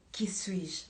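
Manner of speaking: soft, half-whispered question; hushed question to God. Acted. Believer privately asking the Lord who they are, hushed.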